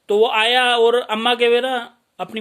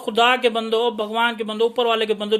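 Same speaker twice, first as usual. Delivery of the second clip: calling out. Real, not acted. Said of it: "preacher calls out to listeners".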